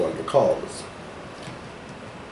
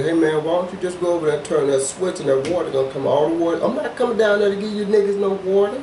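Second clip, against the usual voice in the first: higher, exasperated God voice; voicing God; 7 semitones higher than usual. Telling co-host how God would scold people, exasperated God voice. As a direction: play God fed up with people. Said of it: "he gave you the answer".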